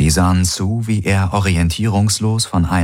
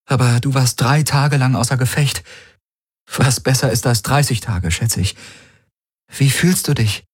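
higher-pitched character voice, quick then questioning; concerned woman companion; 6 semitones higher than usual. Acted. Kirai explains the attack to waking Garland, concerned. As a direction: voice her higher, filling him in.

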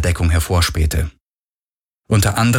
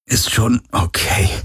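gepresst; 4 semitones higher than usual. Acted. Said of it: "presste er hervor".

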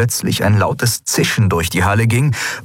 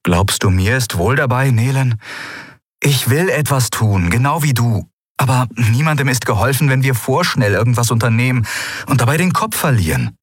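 lightly voiced young friend, a bit higher; mildly raised, appealing tone; Kai, earnest and reasoning; 5 semitones higher than usual.

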